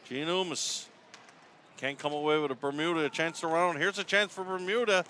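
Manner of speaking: brisk hockey call, names punched as the ball moves; arena commentator calling the rush; live play-by-play. Real, not acted. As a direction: call the action as it happens.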